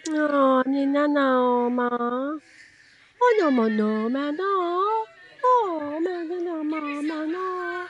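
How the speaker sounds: tender nonsense syllables, coo-like; loving gibberish. Shown as a demonstration. Instructor speaking lovingly in gibberish to her own self. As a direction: coo made-up sounds to yourself with love. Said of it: "you are loving on yourself with gibberish".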